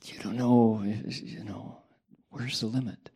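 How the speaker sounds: breathy whispered question. Real, not acted. Teacher musing to the audience in a hushed whisper. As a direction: drop to a whisper as if thinking aloud.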